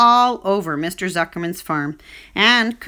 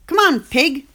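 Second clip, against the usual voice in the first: louder, higher call across the yard; 7 semitones higher, 5 dB louder than usual. Acted. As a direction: call the pig to breakfast from outside. Farmhand calls the pig.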